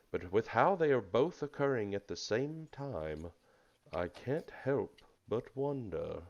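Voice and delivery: lightly voiced turtle, measured and lilting; wise turtle druid. Turtle druid tells furbolg of the blight, lightly voiced concern. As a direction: give a grave little monologue with gentle swoops.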